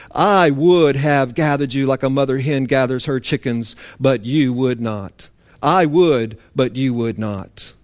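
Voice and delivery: a touch of weeping in the voice; tearful Jesus. Retold or imitated. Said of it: "Real tears".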